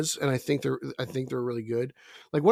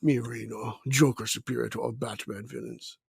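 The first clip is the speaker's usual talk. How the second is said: put-on French Canadian accent; 4 semitones lower, 3 dB quieter than usual. Friend parodies Reno's movie snobbery in French Canadian accent. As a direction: lower mock French Canadian caveman voice with fake laugh. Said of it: "Your French Canadian accent's horrible".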